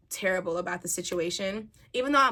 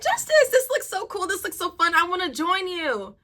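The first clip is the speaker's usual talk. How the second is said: put-on drunk excitement; 8 semitones higher, 5 dB louder than usual. Drunk woman to brother-in-law at the boat's edge, gushing excitedly. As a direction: play your excited tipsy self calling out. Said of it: "Drunk her".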